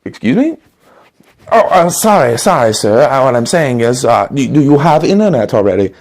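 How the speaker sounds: a German door-to-door salesman greeting a customer; German accent. Acted. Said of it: "German door-to-door salesman".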